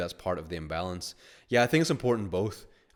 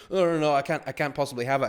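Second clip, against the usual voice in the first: mock refusal; 6 semitones higher, 4 dB louder than usual. Imitating reluctant receiver.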